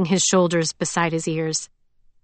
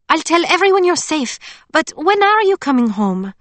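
higher, louder eager friend; Emily's voice; 9 semitones higher, 5 dB louder than usual. A narrator's reading. Emily asking Scarlet when she'll return, eager. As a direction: ask her to come home.

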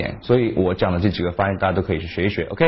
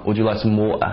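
exaggerated British. Shown as a demonstration. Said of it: "或者是更夸张".

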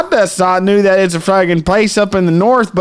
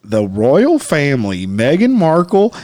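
clown voice. Acted. Back to clown show.

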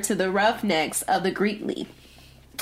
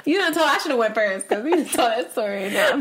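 nervous laugh; 2 semitones higher, faster than usual. Real, not acted. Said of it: "I'm laughing nervously".

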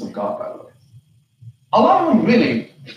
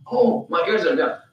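hesitant mock deafness; playing dumb. Mocking listeners pretending their ears are deaf, playing dumb. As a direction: lightly feign being unable to hear. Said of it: "Can you imagine somebody talking like that?".

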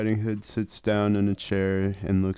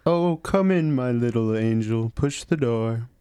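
lightly voiced welcoming granny; grandmother voice; 2 semitones higher than usual. Grandma inviting the visitor in, lightly voiced granny.

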